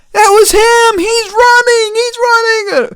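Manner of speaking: high, loud imitated crowd shouts; mock shouting bystanders; crowd yelling. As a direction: yell it like bystanders pointing out a runner. Bystanders yelling at fleeing driver.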